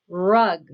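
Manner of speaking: "Rug" loud, with a held R at the start; "Rug" as a clear, punched model word; emphasised R sound. Shown as a demonstration. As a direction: stretch the opening R of "Rug". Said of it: "Does rug have the R sound?".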